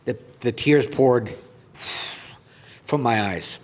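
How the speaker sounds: earnest reading of his own article; reading aloud. Acted. Goaltender reading his article to viewers, earnest. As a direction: read it out like a heartfelt speech.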